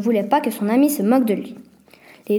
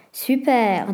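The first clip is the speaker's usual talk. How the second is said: ordinary delivery, nothing marked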